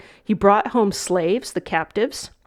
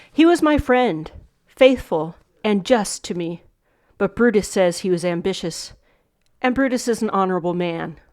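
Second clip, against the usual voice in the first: Shakespeare recitation. Shown as a demonstration. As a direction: read it out as a solemn verse line. Teacher reads monologue lines.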